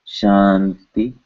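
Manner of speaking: "Shanti" drawn out, N made where the ti is made; N placed like T. Shown as a demonstration. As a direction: say "Shanti" slowly with the n on the tongue's t position. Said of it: "in the same way we are saying".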